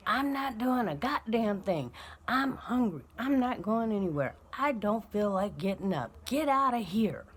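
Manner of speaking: put-on sulky kid telling mom off; mild hammed-up brat voice; bratty kid refusing. Bratty child refusing to get up.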